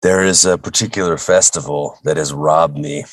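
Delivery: hoarse, choked-up sick voice. Real, not acted. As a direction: voice worn out and choked up from illness. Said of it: "the reason I sound so choked up".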